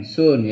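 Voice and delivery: "soon", its double O read as U; long U sound. Shown as a demonstration. Teacher shows pupils how double O reads, long U sound. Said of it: "double O dibaca U".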